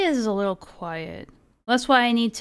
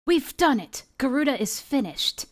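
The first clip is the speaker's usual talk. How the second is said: Alphinaud voice; 5 semitones higher than usual. Retold or imitated. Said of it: "say something in Alphinaud's voice".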